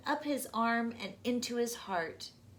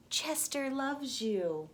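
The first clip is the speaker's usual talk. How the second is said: sing-song. Acted. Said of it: "it sang".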